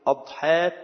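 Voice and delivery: أضحاة with an "a" on the hamza, ad-haat; fatha on the hamza. Shown as a demonstration. Teacher explaining the singular, أضحاة with fatha, "ad-haat". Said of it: "بفتح الهمزة".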